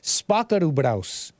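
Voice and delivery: slow, put-on Asian accent; mock Asian accent. Host stuck in the accent from a super chat, mock Asian accent. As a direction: draw it out in an imitated Asian accent. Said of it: "I was Asian locked in my accent".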